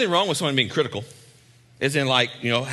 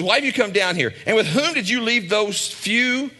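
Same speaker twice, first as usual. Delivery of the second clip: condescending brother; 7 semitones higher than usual. Retold or imitated. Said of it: "just hear how condescending that stuff is".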